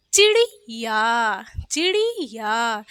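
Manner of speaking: चिड़िया slowly with short "chi-ri", long "yaa"; careful, slow "chi-ri-yaa" for चिड़िया; short i's. Shown as a demonstration. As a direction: sound out चिड़िया, short i's and drawn last vowel. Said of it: "चा पे भी छोटी लगी है".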